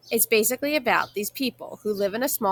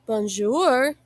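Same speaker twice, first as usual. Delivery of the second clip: hearty greeting; 4 semitones higher, 4 dB louder than usual. A narrator's reading. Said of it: "my dad says in a hearty voice".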